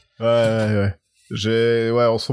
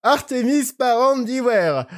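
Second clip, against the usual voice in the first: high, slow, seductive reading; suave voice; 12 semitones higher, slower than usual. Shown as a demonstration. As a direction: drawl it out silkily like a seducer. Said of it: "Tu me le lis d'une voix suave".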